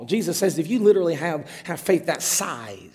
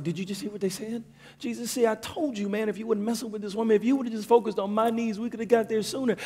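complaining Jairus; 5 semitones higher, 3 dB quieter than usual. Acted.

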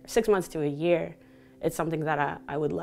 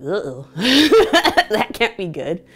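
nervous uh-oh; 5 semitones higher, 10 dB louder than usual. Retold or imitated. Teacher shuts the door.

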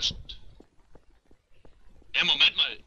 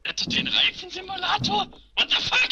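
surprised. Real, not acted. Reading odd game sign, outraged.

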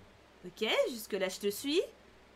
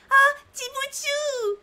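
stretched, much higher, louder squeal; excited squeal; 12 semitones higher, 7 dB louder, much slower than usual. Acted. Player greets cute Tibuchu, delighted squeal. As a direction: gush over the little one.

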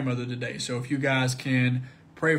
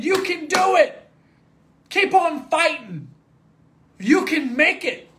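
slow encouragement; 13 semitones higher, 7 dB louder, slower than usual. Acted. Friends cheering you on.

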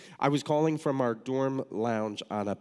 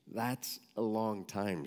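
slow, measured retold reply; unhurried, a hint of an old nun; lightly voiced elderly nun; 4 dB quieter, slower than usual. Mother Teresa to eager student asking to stay, unhurried.

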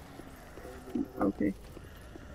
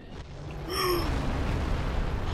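long, high intake of breath; awed gasp; 9 semitones higher, 3 dB quieter than usual. Real, not acted. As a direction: gasp at a sudden sight. Sees dragon appear. (langt, overrasket gisp)

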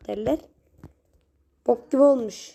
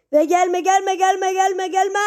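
scared gamer pleading with the monster; panicked pleading; 6 semitones higher, slower than usual. Real, not acted. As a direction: beg the monster to stay away. Begging enemy not to come.

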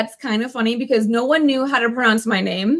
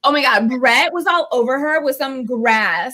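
put-on Valley Girl accent. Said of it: "Valley Girl accent".

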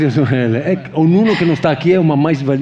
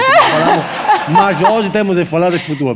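laughing; 6 semitones higher, 4 dB louder than usual. Real, not acted. Laughing switch to football.

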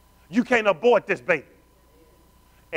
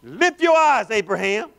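voice of God; 3 dB louder, slower than usual. Acted. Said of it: "Now God is talking".

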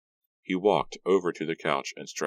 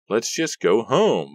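higher, slow nervous plea; pleading to leave; 6 semitones higher, 6 dB louder, slower than usual. Acted. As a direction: beg to go home, scared. Frightened girl wants to leave.

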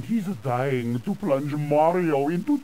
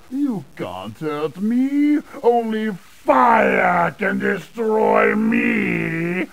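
ordinary delivery

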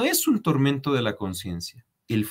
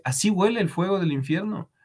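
mocking taunt; 7 semitones higher than usual. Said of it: "Y le dice, por burlarse".

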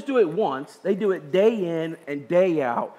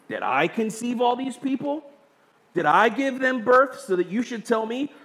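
pitched-up, indignant questioning; provoked complaint; 3 semitones higher than usual. Acted. Moses questions the Lord about his burden, mildly provoked. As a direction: read it as a mildly exasperated protest. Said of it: "Moses now is also provoked".

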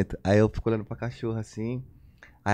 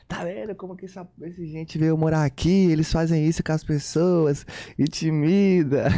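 grumbling neighbour; 4 semitones higher than usual. Retold or imitated. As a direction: mimic the old lady griping to the doorman. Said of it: "e ela roncando". (imitando a velha resmungando, voz mais aguda)

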